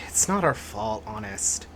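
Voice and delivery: put-on whispered child excuse. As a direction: whisper it nervously.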